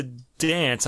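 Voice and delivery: "dance" with a nasal New York "a"; New York accent. Real, not acted. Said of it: "N-, my New York accent?".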